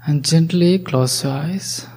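breathy whisper with no voice. Acted. Guide whispering to listeners to close their eyes, whispered. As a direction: whisper the instruction gently.

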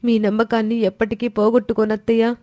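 a grateful bride thanking her mother-in-law through happy tears; tearful young daughter-in-law. Acted.

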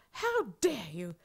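slow, furious whispered rebuke; livid whisper. Retold or imitated. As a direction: hiss it slowly, seething. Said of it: "and he was livid".

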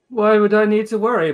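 high, loud, airy protest; cocky dismissal. Acted. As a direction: brush off the warning grandly. Tiberius brushes off a warning, cocky.

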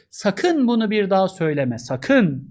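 stern warning. Shown as a demonstration. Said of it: "uyarıyor".

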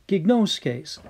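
"Gignoskes" as ig-NOH-skays with a falling end; Greek word gignoskes. Shown as a demonstration. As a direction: model "Gignoskes" for students to repeat. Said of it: "Say it out loud".

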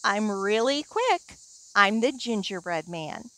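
very high, teasing sing-song; cheeky gingerbread man. Acted. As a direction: taunt them, high and playful.

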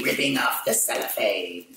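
a hint of the Cobra Commander villain voice. Unwrapping the Blu-ray for viewers, in a lightly voiced cartoon-villain tone. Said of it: "Cobra Commander voice there".

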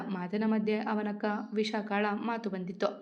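ordinary delivery

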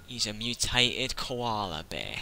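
slow, rough attempt at Australian; badly faked Australian accent. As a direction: have a shaky go at an Australian accent. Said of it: "I can't do an Australian accent".

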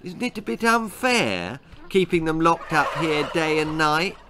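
high, tentative objection; worried child's question; uneasy boy. Acted. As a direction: plead timidly on their behalf. Queasy boy timidly objects.

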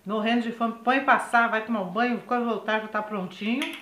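talking with a mouth full. Real, not acted. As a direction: speak around a bite of food. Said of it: "Eu de novo falando de boca cheia".

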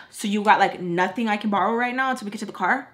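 quick, pushy mock question; imitating friend's demand. Friend asking to borrow money, mildly pushy imitation. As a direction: mimic her rushing out a loaded request. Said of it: "Like that".

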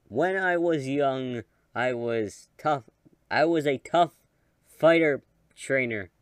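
put-on slow, weary old trainer; tired out voice. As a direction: read it like a worn-out old man. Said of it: "I'm just doing my tired out voice".

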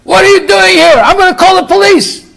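high, loud outraged screech; screaming lady. Retold or imitated. Lady confronting an intruder at the senior center, screaming. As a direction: shriek it as an alarmed, outraged lady. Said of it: "I heard some lady screaming in the background".

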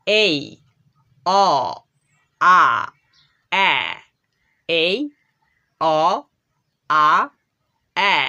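slow, clear sound-by-sound drill; letter sounds demo. Shown as a demonstration. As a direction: say each vowel sound alone, slowly. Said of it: "এই বর্ণটি চারটে sound উৎপন্ন করে". (ধীরে ধীরে আলাদা করে স্বরধ্বনি)

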